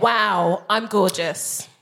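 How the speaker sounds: low, self-admiring demo line; channelled Nigerian auntie. Shown as a demonstration. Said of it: "channel my Nigerian aunties".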